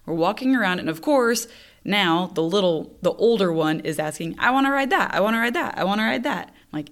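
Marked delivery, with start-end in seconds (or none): 4.4-6.5 lightly voiced pestering child; nagging kid. Older child begging mom for rides, nagging. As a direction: imitate a kid begging on repeat.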